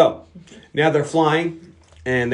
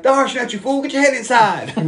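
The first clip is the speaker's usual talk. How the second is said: higher, gruff mock bark, laughing; 8 semitones higher than usual. B A telling Murdoch to get his head inside. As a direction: bark it like a tough guy, breaking up. B A voiced in retold movie.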